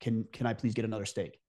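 politely sending back an overcooked steak; polite request. Shown as a demonstration. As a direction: ask nicely for a new steak, lowering the voice. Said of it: "So you very politely say".

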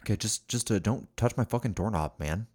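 lightly voiced bro; gym bro. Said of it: "Let's do our best bro voices".

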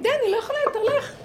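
high, loud, half-laughing rebuke; firm telling off. Shown as a demonstration. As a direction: show her how to push it away loudly. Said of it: "ואת צריכה להגיד". (נזיפה רמה וגבוהה, צוחקת למחצה)

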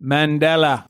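MANDELA flowing through three syllables; melodic. Shown as a demonstration. Host showing friend the name's lyrical flow, melodic. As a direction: let MANDELA roll out smoothly. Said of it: "I mean, melodically".

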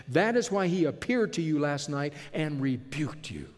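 heated speech, pushed hard; angry Jacob. Acted. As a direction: pour out twenty years of anger. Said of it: "read it in the way that I suspect he would have spoken it".

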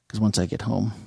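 talking with gum in mouth; words round a wad of gum; chewing gum. Real, not acted. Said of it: "I have gum in my mouth".

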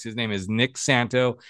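"Santo" ending cleanly on o, no s; careful name pronunciation. Shown as a demonstration. Host restating guest's name correctly, careful pronunciation of Santo. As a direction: repeat "Santo" carefully without a final s. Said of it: "I'm gonna get it right".

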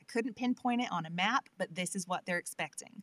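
generic American Southern accent; broad Southern accent. Shown as a demonstration. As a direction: put on the Southern accent everybody expects. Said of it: "gonna do a Southern accent".

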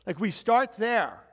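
usual speaking voice

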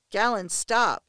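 loud desperate plea; begging. A narrator's reading. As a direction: beg him to stop. Pleading with captor.

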